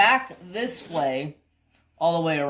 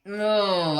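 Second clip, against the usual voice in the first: higher and louder stern no; angry scold; 4 semitones higher, 5 dB louder than usual. Retold or imitated. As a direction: cut the dog off hard. Scolding the dog.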